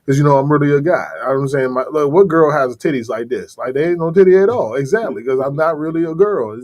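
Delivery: lightly voiced deep athlete parody; Brittany Griner impression. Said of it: "that motherfucker's voice is just".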